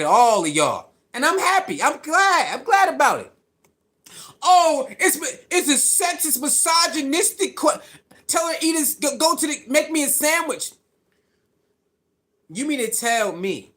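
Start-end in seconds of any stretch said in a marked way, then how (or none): 4.4-10.7 high-pitched imitation of scandalized critics; mock outrage. Commentator mimicking critics upset over a sandwich remark, mock outrage. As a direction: parody their fuss in a raised pitch.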